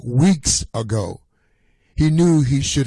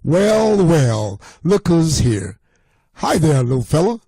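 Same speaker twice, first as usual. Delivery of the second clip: jolly shopkeeper; 3 semitones higher, 4 dB louder than usual. Acted. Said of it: "a familiar voice said".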